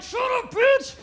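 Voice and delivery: high, sharp shushing yell; hammed-up panicked snap; mock hissed shout. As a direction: shut her up fast. Hushing her friend sharply.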